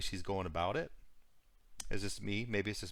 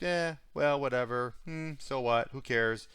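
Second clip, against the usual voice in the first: imitating someone who couldn't care less; mock blasé; 3 semitones higher than usual. Mocking a debtor's blasé attitude, a careless shrug. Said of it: "the whole blasé kind of attitude".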